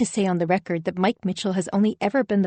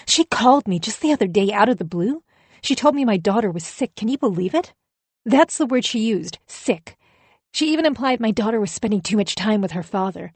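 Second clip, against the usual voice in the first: indignant ex-wife. Acted. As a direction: vent like a wronged first wife. Deborah's interview rant.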